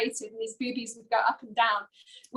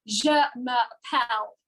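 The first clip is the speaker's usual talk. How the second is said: slow, deliberately bad schoolroom French; terrible French accent; slower than usual. Pupil annoying her French teacher, deliberately terrible French accent. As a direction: butcher the French accent on purpose. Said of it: "My accent was terrible, ... had a bad accent".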